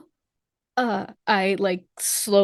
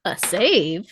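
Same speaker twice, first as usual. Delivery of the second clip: unvoiced surprised whisper. Real, not acted. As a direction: breathe it out in surprise.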